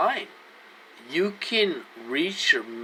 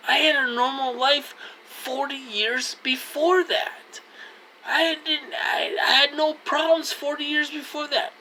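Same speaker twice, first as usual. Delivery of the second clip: crying out; 10 semitones higher than usual. Real, not acted. Distressed about losing normal life.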